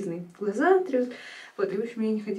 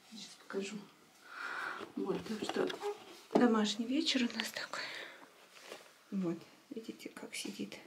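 whispering; 2 semitones higher, 11 dB quieter than usual. Real, not acted. Whispering near sleeping baby.

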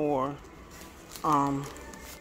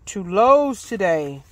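loud, high indignant rant; real frustration, louder and higher; annoyed; 5 semitones higher, 8 dB louder than usual. Real, not acted. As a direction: fume at the missing numbers. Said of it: "I am so annoyed".

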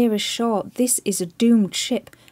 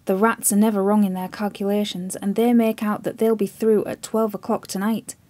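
grim warning; 6 dB louder than usual. Acted. Chips foretelling the admiral's death, loud and grim.

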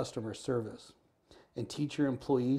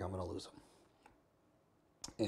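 tearful despair; 4 semitones lower, 11 dB quieter, much slower than usual. Retold or imitated. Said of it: "held her while she cried".

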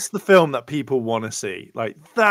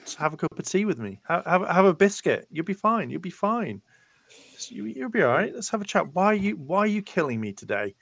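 higher, gently coaxing a killer over tea; soothing mate; 4 semitones higher than usual. Retold or imitated. Offering Ghostface tea, a higher coaxing voice. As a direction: talk a killer down like a kind host. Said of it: "the one person sat there, like".

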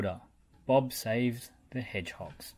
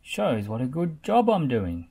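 chuckling; 3 semitones higher, 7 dB louder than usual. A narrator's reading. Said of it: "chuckled Spud".

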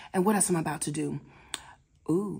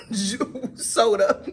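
laughing self-scold. Retold or imitated. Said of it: "I was like".

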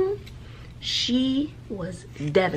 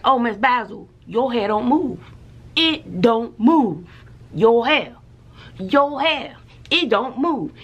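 teasing students, pitched up; mocking students; 3 semitones higher than usual. Students teasing the teacher about her hair, mock singsong. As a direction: mimic kids poking fun at her hair. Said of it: "They be like".

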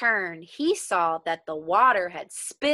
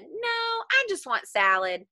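fussy Vicereine; 7 semitones higher than usual. Retold or imitated. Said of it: "the Vicereine said".

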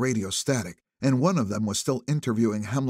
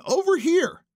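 put-on high, loud old woman's call; lightly voiced old woman calling; 5 dB louder than usual. A narrator's reading. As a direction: beckon him over. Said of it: "she said".

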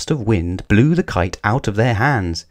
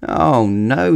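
dismayed cry; 4 semitones higher than usual. Acted. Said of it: "he cried".

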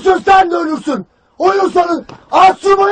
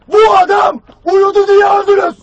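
raised, shouted blame; angry accusation; 3 semitones higher than usual. Acted. Commander blaming deaths on a sleeper, angry shout. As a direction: drive the blame home to all.

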